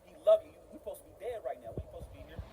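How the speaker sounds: very soft, low and earnest; hushed preaching. Real, not acted. Preacher confronting a struggling brother, suddenly hushed. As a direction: drop right down, pausing between phrases. Preacher drops voice after shouting.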